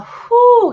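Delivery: high, loud exhaled "whew"; overwhelmed whew. Real, not acted. Medium feeling love flood into the heart, overwhelmed whew. Overwhelmed by energy felt arriving.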